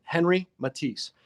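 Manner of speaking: Henri Matisse said with a French accent; French pronunciation of Henri Matisse. Shown as a demonstration. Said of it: "That was my French accent".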